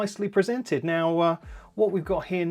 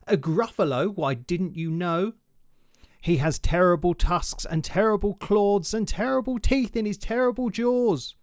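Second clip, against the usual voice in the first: boastful little mouse; 3 semitones higher than usual. Acted. Mouse describing the Gruffalo to the fox, raised and building. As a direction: puff up the danger to scare the fox.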